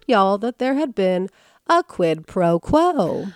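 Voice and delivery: y'all, quid pro quo spelled out slowly; slow reveal. Real, not acted. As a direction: savor each word of the punchline. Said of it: "I can't believe I'm gonna say this".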